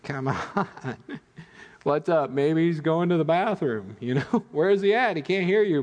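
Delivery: mocking taunt. Elijah taunting the prophets of Baal, mocking and gleeful. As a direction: rub it in, laughing at their silent god. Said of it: "Elijah is just taunting them".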